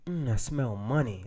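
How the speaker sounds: a mild imitation of the mentor smelling money; mentor sniffing. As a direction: sniff the air and purr the line. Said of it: "he was like".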